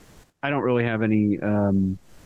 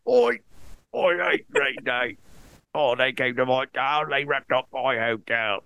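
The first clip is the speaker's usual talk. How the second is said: put-on botched German accent that wanders off; bad German accent; 2 semitones higher than usual. Podcaster as a fan complaining about the band, bad German accent. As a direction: grumble as a fake German, accent all wrong. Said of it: "not what I'm doing".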